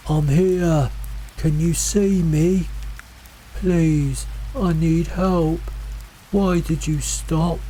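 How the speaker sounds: high, slow, pleading call. A narrator's reading. Mimic voice luring hikers through fog, pleading call. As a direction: call out drawn-out, begging to be found. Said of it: "The voice kept calling".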